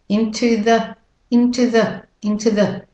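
"Into the" as one smooth linked word; "Into the" blended into one phrase; run together smoothly. Shown as a demonstration. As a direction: glide through "into the" without a gap. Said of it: "runs together to make it smooth".

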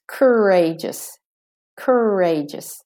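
courageous as American ker-RAY-jus, R-coloured first syllable; slow American courageous, hold the first R; American pronunciation. Shown as a demonstration. Teacher showing the American version, American courageous. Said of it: "In American".

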